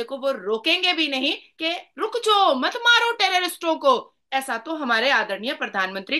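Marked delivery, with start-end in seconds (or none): 2.0-4.1 higher-pitched acted appeal to stop; lightly acted urgent command, pitched up; mock plea. Politician imagined telling attackers to stop, mock plea.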